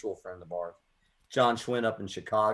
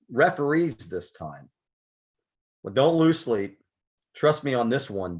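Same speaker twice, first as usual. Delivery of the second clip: poem recitation. Acted. Reads his poem on air.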